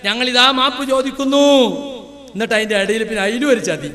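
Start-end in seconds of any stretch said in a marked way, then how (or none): 0.0-1.6 raised, higher imitation of a confession; declaimed fake contrition; mock apology. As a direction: parody a solemn public apology. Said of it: "അപ്പോ മൂപ്പര് പറയാണ്".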